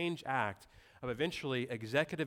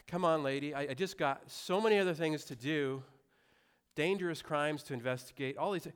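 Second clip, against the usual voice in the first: mock weary plea, raised and louder; exasperated cop; 4 semitones higher, 3 dB louder than usual. Policeman pleading with the feuding lady, exasperated. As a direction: imitate a fed-up officer begging a lady to stop. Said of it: "his voice kinda just is exacer-, exacerbated".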